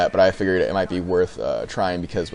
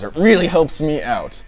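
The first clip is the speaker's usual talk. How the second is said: higher, louder YouTuber catchphrase; X-Jaws catchphrase; 7 semitones higher, 4 dB louder than usual. Retold or imitated. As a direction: pitch it up like a channel sign-off. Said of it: "Just like X-Jaws".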